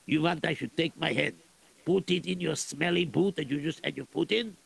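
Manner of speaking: put-on lightly accented Russian general, gruff and greedy. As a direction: play a scheming Russian general. Plays Russian general in story.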